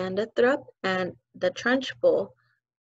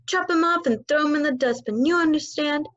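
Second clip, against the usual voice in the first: barked; 6 semitones higher than usual. Acted. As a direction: bark it at the girl. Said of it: "she barked".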